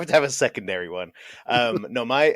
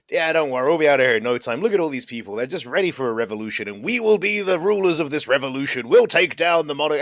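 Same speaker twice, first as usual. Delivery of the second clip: loudly voiced plotting, building louder and higher; mock shouting; 4 semitones higher, 3 dB louder than usual. Prisoners openly plotting revolution beside their guards, building mock shout. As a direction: announce the secret plan far too openly, rising to a proclamation. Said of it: "you're just shouting this".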